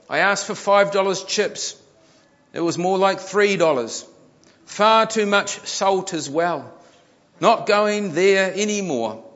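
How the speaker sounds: high, indignant customer read-out; mock complaint. A narrator's reading. Customer posts about short chips on Facebook, mock complaint. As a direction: air the grievance in mock indignation.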